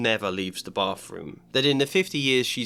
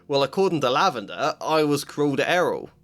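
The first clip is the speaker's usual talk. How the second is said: scoffing; 3 semitones higher, 4 dB louder than usual. Acted. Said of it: "Ron scoffed".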